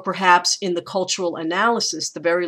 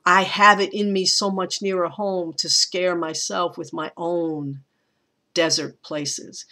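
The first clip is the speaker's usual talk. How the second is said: poem reading. Acted. Teacher rereading the poem's final lines to students.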